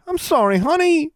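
high, wailed apology; loud, high-pitched dismay; distressed cry. A narrator's reading. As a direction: cry out sorry to a hurt pet. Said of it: "she cried".

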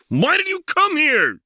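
loud, high anguished cry; high loud desperate shout; cried out. Acted. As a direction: cry out in despair. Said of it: "she cried".

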